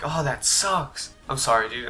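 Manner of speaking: soft, drawn-out commiseration; mock sympathy. Friends hearing he got grounded, softly sympathetic. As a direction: console a buddy quietly, slowing on the first words.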